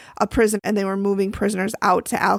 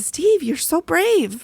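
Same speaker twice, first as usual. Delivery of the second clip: sarcastic; 7 semitones higher, slower than usual. Retold or imitated. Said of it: "I'm like".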